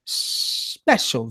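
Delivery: breathy whisper on "special". Shown as a demonstration. Teasing viewers about a special guest, whispered. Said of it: "repeats special guest".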